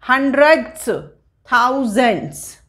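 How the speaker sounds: "हंड्रेड्स, थाउजेंड्स" set apart, each closing on ths; ths endings shown. Shown as a demonstration. Teacher drilling place names, "हंड्रेड्स, थाउजेंड्स" with ths endings. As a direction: sound out the endings of "हंड्रेड्स, थाउजेंड्स", pausing between. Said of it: "last में आएगा यहाँ पे टीएचएस".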